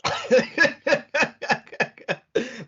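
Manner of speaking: big high laugh like a TV host; Claudia laugh impression. Host mimicking Claudia's trademark laugh on air. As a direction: burst into a hosting laugh. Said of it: "That was me doing Claudia's bangs".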